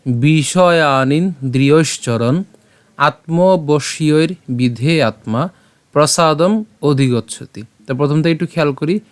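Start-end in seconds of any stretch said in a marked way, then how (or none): 0.1-7.6 measured shloka recital; slow Sanskrit recitation. Shown as a demonstration. Teacher reciting a Gita verse slowly for students. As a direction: chant the verse slowly, each syllable clear. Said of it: "আজকের শ্লোকটি হলো".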